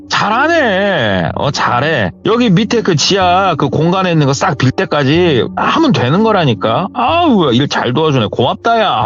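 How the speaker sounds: butter him up warmly; friendly praise. Retold or imitated. Uncle praising the nephew's work, smiling and friendly. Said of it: "되게 살갑게 웃으면서 잘 대해주시더래".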